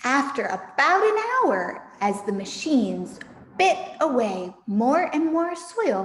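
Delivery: put-on lively read-aloud for children; story narration. A narrator's reading. The narrator reading Fantastic Mister Fox to her listeners. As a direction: tell it like a bedtime story.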